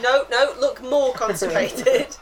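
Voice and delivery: imagined film director. Acted. Imagined director off to the side urging the actor, mock-insistent. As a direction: coach the actor insistently from the sidelines. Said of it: "I can only imagine the director".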